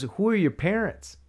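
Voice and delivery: high, slow mock questioning; imitated lady questioning. Lady asking the boy about parents, high slow imitation. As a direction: ask it high and drawn out, imitating her.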